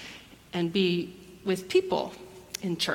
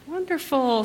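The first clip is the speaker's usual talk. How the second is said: bright welcome; 5 semitones higher than usual. Real, not acted. Greeting children at the front.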